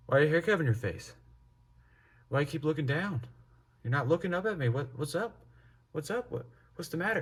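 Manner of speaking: high-pitched imitation of a nagging mother; pressing mom. Mom pressing her son in the garage, high insistent questioning.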